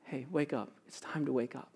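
very hushed, low wake-up call; barely-there, loving murmur, pitched low; soft, tender, loving. Acted. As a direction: rouse a sleeping child gently. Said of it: "saying in a soft, tender, and loving way".

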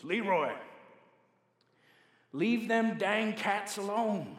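slow, drawn-out Alberta farmer drawl; Alberta farmer accent. Retold or imitated. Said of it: "in his Alberta farmer accent".

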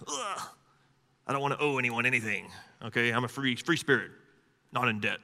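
mock whiny, grudging voice; sulky brat refusing to owe; whiny man child. Mock reluctant worshipper.

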